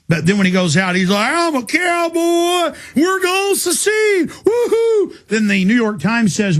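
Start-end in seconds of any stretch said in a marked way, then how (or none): 1.3-5.1 high, slow hammed-up Texan cowboy drawl; mock good old boy accent. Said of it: "puts on a fake, you know, good old boy accent".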